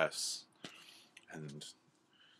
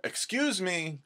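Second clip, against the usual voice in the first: high-pitched tiny bird voice; squeaky little interruption; small hummingbird; 12 semitones higher, slower than usual. Acted. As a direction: pipe up politely from far below. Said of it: "the hummingbird says".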